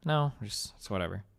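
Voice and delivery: understated shrug-it-off reply; whatever mood. Retold or imitated. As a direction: brush it off half-heartedly. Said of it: "a minorly kind of whatever mood".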